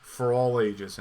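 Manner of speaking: loud, hammed-up devil's accusation; Satan character. Satan accusing the critic over a bad review, loud mock voice. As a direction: boom out the charge. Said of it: "he has the Satan character".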